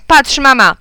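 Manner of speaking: loud, high call to mum; child calling out. A narrator's reading. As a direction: call for attention, excited. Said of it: "zawołałem". (głośne wołanie dziecka)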